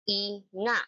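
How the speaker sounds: syllable by syllable with pauses; clapped syllables. Shown as a demonstration. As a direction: clap out each syllable. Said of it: "Ipalakpak nyo nga".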